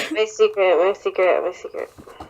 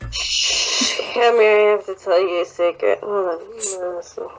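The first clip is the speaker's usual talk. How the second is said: put-on drunk mom voice. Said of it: "did you like my drunk mom voice".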